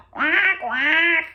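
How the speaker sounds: high, loud quack, called out; duck quacking call. A narrator's reading. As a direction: quack like a mother duck calling her brood. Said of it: "Mama Duck called to her brood".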